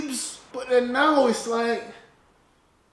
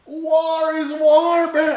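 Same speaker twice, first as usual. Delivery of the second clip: higher, louder, slow and firm; louder emphatic; 8 semitones higher, 6 dB louder, much slower than usual. Real, not acted. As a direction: hammer the point home. Repeats louder.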